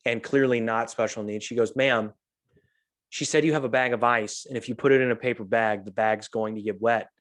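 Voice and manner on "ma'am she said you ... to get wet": calm. Retold or imitated. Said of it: "that's how calm she was".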